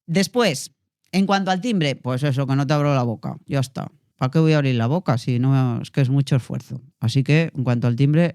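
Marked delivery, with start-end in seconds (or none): 2.5-6.8 mumbled demo with closed mouth; mouth barely open. Shown as a demonstration. Coach imitating a lazy speaker who won't open up, mumbling. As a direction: talk without bothering to open the mouth. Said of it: "el principal error que me encuentro es esto".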